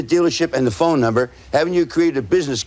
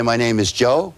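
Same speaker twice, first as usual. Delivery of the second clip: name given slowly with a pause between parts; slow, deliberate self-introduction; slower than usual. Shown as a demonstration. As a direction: say your name slowly, leaving space after the first name. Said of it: "you gotta say it slowly".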